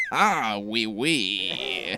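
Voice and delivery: put-on nervous laughing oui, oui in French accent; sheepish oui oui. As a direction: bluff with a weak oui oui. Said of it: "And I'm just like".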